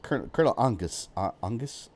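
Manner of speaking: fumbling British try at "Angus"; hesitant, badly faked British accent; attempted British accent. Shown as a demonstration. Streamer trying a chat request, unsure British accent. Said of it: "Say Colonel Angus with a British accent".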